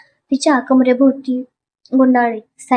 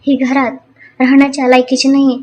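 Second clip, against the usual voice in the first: shouting. Acted. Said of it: "Sonal मागून ओरडली".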